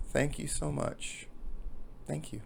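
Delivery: soft, grateful woman after crying; quiet gratitude. Acted. Woman thanking the jogger who held her, soft gratitude. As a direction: say it softly, as thanks for a hug. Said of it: "her crying stops and she goes".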